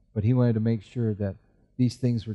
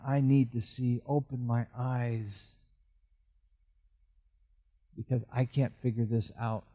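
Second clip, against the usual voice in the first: humble prayer. Acted. Prayer voiced as believer.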